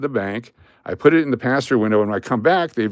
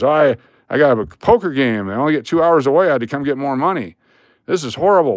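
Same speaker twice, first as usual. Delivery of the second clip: mock agitated customer, pitched up a bit; agitated complaint; 3 semitones higher, 3 dB louder than usual. Poker player complaining to security guard, agitated. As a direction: imitate a man griping about his predicament.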